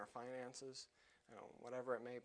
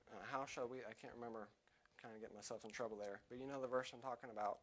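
ordinary delivery

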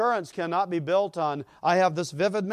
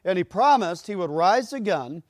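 slow and loud, building, preacher's fire; fervent preaching; 2 semitones higher, 6 dB louder, slower than usual. Acted. Preacher proclaiming Christ to the congregation, fervent and loud. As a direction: proclaim it from the pulpit.

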